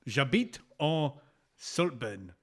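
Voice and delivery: slow put-on French; halting classroom French; mock French accent. Host saying where he lives, in slow mock French.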